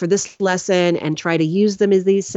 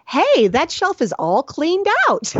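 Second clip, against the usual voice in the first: quoting husband; 9 semitones higher, slower than usual. Retold or imitated. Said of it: "and he's like".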